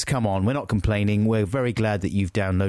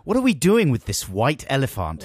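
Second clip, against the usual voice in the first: loud, higher indignant demand; mock political outrage; 6 semitones higher, 5 dB louder than usual. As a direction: rail like a phone-in ranter. Mock outraged phone-in rant.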